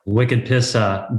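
slow Boston slang; lightly mocking Boston accent. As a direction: draw out a Boston "pissa". Boston slang after accent game.

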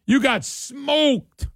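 slow, gloating taunt that builds to a shout. Retold or imitated. Host taunting beaten Democrats, slow gloating shout. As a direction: rub it in, word by word, then yell. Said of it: "And in our state is".

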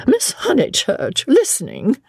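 high-pitched mock-stern scolding; rather cross. A narrator's reading. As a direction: reprove an eavesdropper with mild crossness. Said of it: "she said rather crossly".

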